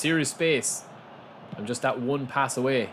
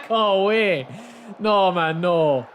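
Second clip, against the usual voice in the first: frustrated protest; 6 semitones higher, 6 dB louder, slower than usual. Real, not acted. Frustrated reaction to play.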